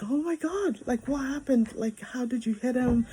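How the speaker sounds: a retold rush of panic over the blood; panicked mother. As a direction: Mom startled and scared by her son's injury. Mother panics over injured child.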